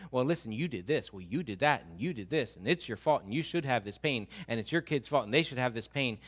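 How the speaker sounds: singsong finger-pointing, stressing each accusation; lightly mocking blame, pitch bobbing up and down; accusing companions.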